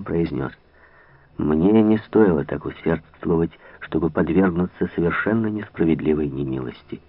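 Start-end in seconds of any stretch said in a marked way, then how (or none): none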